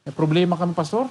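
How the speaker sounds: softly imitating a troubled churchgoer; mock tearful. Crying church member confiding in the pastor, imitated tearfully. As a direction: confess it low and quiet, as if weepy. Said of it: "Mga kapatid, umiiyak".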